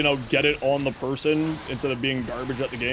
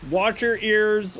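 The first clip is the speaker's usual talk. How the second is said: slow warning; 3 semitones higher, much slower than usual. Real, not acted. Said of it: "We're just doing a quick test".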